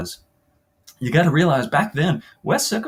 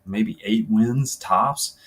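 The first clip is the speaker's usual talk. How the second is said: conversational first-person story reading; interview monologue. Acted. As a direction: tell it like a player recalling the season. Reads novel's player interview aloud.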